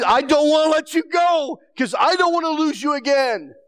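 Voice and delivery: cling and cry out you won't lose him again; pleading cry. Retold or imitated.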